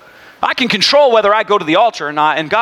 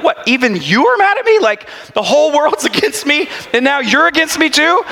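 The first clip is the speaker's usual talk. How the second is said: a high, hurt mock whine; whiny soul; 7 semitones higher than usual. Soul complaining to the preacher in a mock whine. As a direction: play the wounded soul. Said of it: "And my soul's like".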